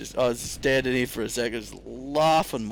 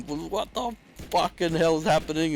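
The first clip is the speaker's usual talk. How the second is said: panicked yell; 6 semitones higher than usual. Retold or imitated. Retelling panic as robot attacks.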